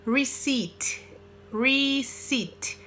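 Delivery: receipt said as ree-SEET; silent P in receipt. Shown as a demonstration. Teacher models a tricky word, receipt as ree-SEET. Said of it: "Não pronuncia esse P aí".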